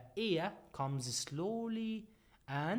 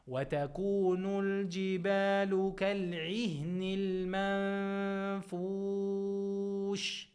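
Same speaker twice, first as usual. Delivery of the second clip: chanted tajweed recitation, held and measured; Quran recitation; 3 semitones higher than usual. Shown as a demonstration. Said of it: "So we say".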